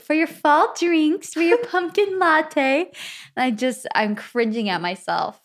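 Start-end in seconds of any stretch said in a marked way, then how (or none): 0.0-2.9 high, drawn-out influencer pitch; gushy promo voice. Acted. Acting out a fall drinks promo, gushy. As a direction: sell it in a high, slow sing-song. Voicing a gushing social media promo.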